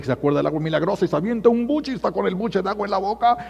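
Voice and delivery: normal talking voice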